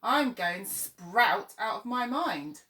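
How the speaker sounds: a fed-up crow moaning about the sprouts; slow mock-despairing groan. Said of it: "moaned another".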